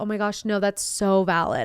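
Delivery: ordinary delivery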